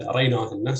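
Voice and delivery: أريناهن stressed on the second syllable. Shown as a demonstration. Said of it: "So stress would be on".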